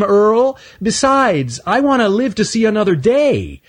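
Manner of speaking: high, small nervous squirrel voice; a timid young squirrel pleading; Stanley the squirrel. Acted.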